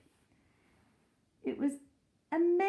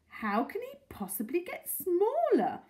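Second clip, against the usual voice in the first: put-on high old lady; 10 semitones higher, 4 dB louder than usual. Mrs Silver asking.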